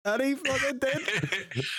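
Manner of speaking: high-pitched, drawn-out emphatic cheer; emphatic interjection. Real, not acted. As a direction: butt in high and slow, stretching it. Butting in on friend's story.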